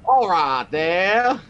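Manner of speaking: slow, high Cockney greeting; drawn-out London Cockney voice; Cockney accent. Acted. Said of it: "I'll put on my best Cockney accent".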